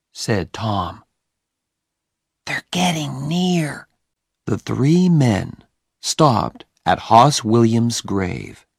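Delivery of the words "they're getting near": Tom. Acted. Tom voiced in story.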